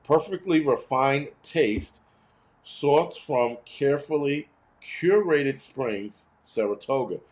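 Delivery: slow, plush commercial voice, savouring each word; slow, hammed-up mock ad read; mock fancy ad read. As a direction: read the label like a luxury ad. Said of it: "check this bullshit out".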